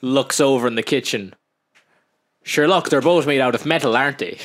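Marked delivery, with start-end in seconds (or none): 2.4-4.4 breezy bluster. Acted. Acting out plotters' breezy excuses.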